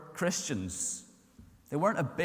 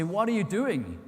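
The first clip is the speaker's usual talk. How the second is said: a touch of confrontation; 5 semitones higher, 4 dB louder than usual. Acted. Big kid confronting the bully.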